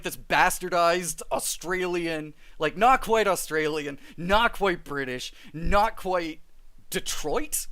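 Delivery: muddled British-Australian accent; bastardized British accent. Shown as a demonstration. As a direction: slip between bad British and Australian. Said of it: "With my British accent".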